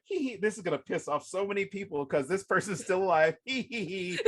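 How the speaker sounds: mischievous giggling, hee hee; gleeful giggle. Retold or imitated. Author imagines angry readers, mischievous giggle. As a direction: giggle like a prankster plotting. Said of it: "I was thinking to myself".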